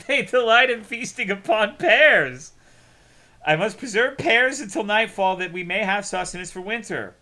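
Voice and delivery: chuckling at the pear-devouring sons; laughing through the line. Acted. Father proudly explains his sons, laughing.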